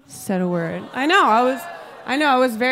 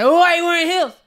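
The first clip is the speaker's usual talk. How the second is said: whining men; 8 semitones higher, 4 dB louder, faster than usual. Retold or imitated. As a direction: imitate men whining in a put-on high voice. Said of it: "men are always like".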